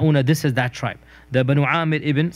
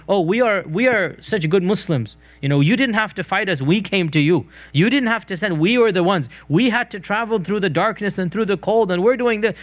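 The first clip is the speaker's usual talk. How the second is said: higher-pitched imitation of self-satisfied converts; mock boasting; 5 semitones higher than usual. Lecturer imitating a tribe boasting to the Prophet, mock bragging. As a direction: list your merits like someone claiming credit. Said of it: "they're boasting to you".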